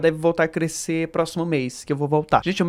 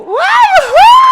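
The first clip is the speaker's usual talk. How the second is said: excited whoop; 14 dB louder, much slower than usual. Real, not acted. Celebrating moving to new apartment.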